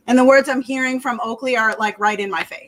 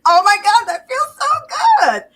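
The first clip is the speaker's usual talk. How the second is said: high squeaky dog in bliss; blissful dog voice; 9 semitones higher, 4 dB louder than usual. Retold or imitated. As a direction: voice the dog melting with pleasure at a scratch. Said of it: "and he's like".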